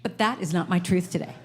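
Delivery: a little attitude on every word; sassy attitude. Shown as a demonstration. Speaker leads the audience in a sassy affirmation. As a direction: toss the line off with sass. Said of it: "then you have to do the little attitude thing".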